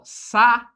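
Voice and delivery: saúde broken into syllables, sa-ú-de; saúde, syllables held apart; syllable split. Shown as a demonstration. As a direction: sound out saúde one syllable at a time, rising. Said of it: "a separação silábica fica assim".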